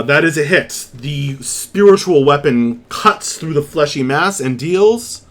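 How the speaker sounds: vivid, emphatic scene setting; dramatic storytelling of a monster being struck; game master's combat narration. Acted. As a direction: lean into the key action words.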